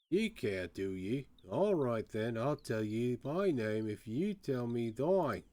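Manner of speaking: put-on wary old-salt bargaining; lightly voiced Cockney jailbird striking a deal; Cockney prisoner. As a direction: archaic Cockney rogue, sizing up the listener.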